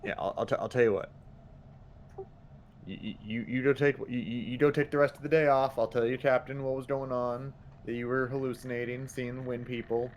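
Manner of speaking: put-on stammering southern good ol' boy; southern accent. Player offers hallucinating guard the day off, southern accent. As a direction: talk him down in a folksy southern accent. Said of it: "That was all said in a southern accent".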